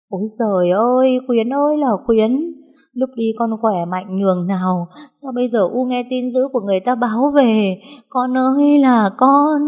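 loud, high wail for a lost son; wailing lament. A narrator's reading. Mother wailing for her fallen son, loud and high. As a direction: cry out to the heavens in grief. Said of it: "bà hoảng loạn kêu gầm lên".

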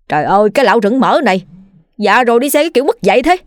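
fast, indignant scolding; grumpy cursing. Acted. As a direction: rattle off the curses at the rider. Old man cursing a reckless rider.

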